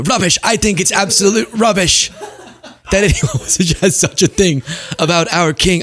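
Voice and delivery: high, laughing put-on British accent; hammed-up British indignation, mocking her. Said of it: "I gave her that accent".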